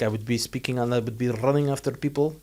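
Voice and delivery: put-on shaky Middle Eastern accent, slightly Russian; rough Middle Eastern accent impression; attempted Middle Eastern accent. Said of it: "It's a bit Russian".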